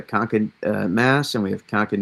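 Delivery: Concord as CONK-id, no R; local Massachusetts pronunciation. Shown as a demonstration. Forecaster naming the two New England towns, Concord as CONK-id. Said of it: "that's how we say it".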